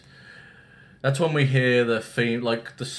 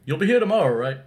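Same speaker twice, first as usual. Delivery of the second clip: put-on naive little boy; 6 semitones higher, 6 dB louder, faster than usual. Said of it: "'Cause that's what".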